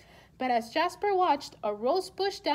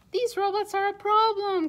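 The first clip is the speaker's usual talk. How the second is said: louder, higher cry of dismay; the king cries out at the stomping robots; cried out; 6 semitones higher, 4 dB louder than usual. Acted. King cries out to the wizard, louder and higher. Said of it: "cried Jasper".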